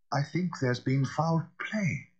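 slow, hoarse and grave; lightly voiced hoarse butler. A narrator's reading. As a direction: drag it out hoarsely, fearful. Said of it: "said Poole hoarsely".

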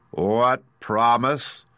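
slow, drawn-out wizard's question; slow hidden Oz. Acted. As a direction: ask it slowly and grandly. Oz asks slowly.

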